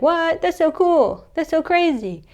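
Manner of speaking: high, gushing wonder; mock amazement. Louise hearing about her magic necklace, acted amazement. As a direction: imitate a thrilled girl, pitched well up.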